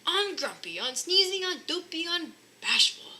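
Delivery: husband driving the sleigh; shouted. Acted. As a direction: shout the team on. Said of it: "he shouted".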